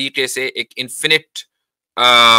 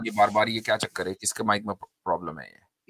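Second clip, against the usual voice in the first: cave echo; 5 semitones lower, 9 dB quieter than usual. Real, not acted. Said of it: "इनकी आवाज इको हो रही है".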